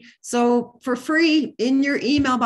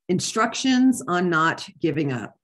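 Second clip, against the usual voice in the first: measured, deliberate poetry recital; poem reading. Acted. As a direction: read it out as a poem, phrase by phrase. Reads a poem aloud.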